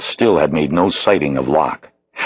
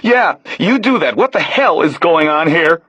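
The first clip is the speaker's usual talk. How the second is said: put-on high, pleading young man's voice; a rattled stranger begging to be let go; nervous young man; 13 semitones higher than usual. Realtor's helper pleading with the man who grabbed him, nervous. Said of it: "he heard the real estate man say".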